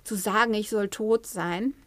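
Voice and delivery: a hint of a hurt adult taking offence; mild mock indignation, slowing at the end; offended inner child. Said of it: "was dann vielleicht sagt so".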